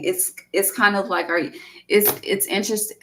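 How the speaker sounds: tripping over restarts; stuttering. Real, not acted. Reader losing the thread of a tarot reading, stuttering. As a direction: stumble and restart the phrase. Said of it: "I'm stuttering".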